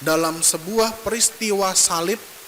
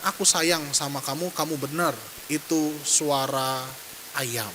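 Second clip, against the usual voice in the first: tender father; 4 semitones lower, 5 dB quieter than usual. Acted. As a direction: say it gently as if hugging him. Retelling father's loving words.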